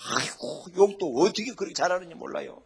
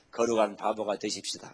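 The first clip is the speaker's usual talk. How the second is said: lead-in line; 7 semitones lower, 4 dB quieter than usual. Shown as a demonstration. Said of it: "한번 인사 한번 하십시다".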